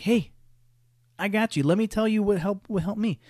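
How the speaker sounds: mock-helpful, pitched well up; chirpy advice-giver. Stranger offers a struggling parent advice, in a high, overfriendly voice. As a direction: lift it high like an eager know-it-all.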